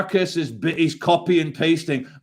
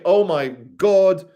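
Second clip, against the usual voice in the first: mock leader; 3 semitones lower than usual. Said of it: "every leader in the world was saying".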